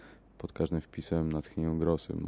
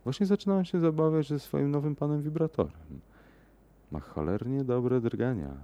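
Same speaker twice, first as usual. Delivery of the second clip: high-pitched playful female character voice; excited woman exclaiming; 8 semitones higher than usual. A narrator's reading. Woman tells her lover about her new toy, exclaiming. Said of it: "wykrzyknęła".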